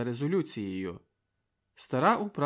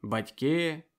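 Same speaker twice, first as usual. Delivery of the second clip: impassioned public address; rousing speech; 4 dB louder than usual. A narrator's reading. Volodko addressing the meeting, stirring. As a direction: speak to the crowd with fire.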